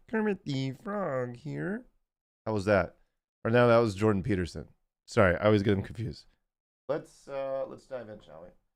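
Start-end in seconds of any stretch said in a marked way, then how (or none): 0.1-1.8 pitched up, taken slowly. Asked to do an impression on the spot: Kermit the Frog impression. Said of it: "do an impression right now".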